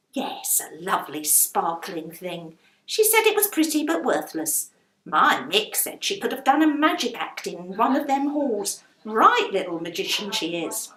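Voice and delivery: a hint of affection for the lodger; chatty and warm; fond landlady. Landlady praises Melly.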